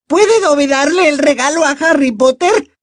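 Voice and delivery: very high, squeaky elf voice; timid elf question. A narrator's reading. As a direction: ask shyly as a little elf. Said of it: "preguntó con timidez". (pregunta tímida con voz de elfo muy aguda)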